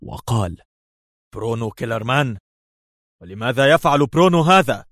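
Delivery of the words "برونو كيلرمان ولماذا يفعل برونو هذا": incredulous question, climbing high and louder; astonished. A narrator's reading. Officer hearing who is behind it, astonished. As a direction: question it in rising amazement. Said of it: "الدهشة في أعماقه بدوره".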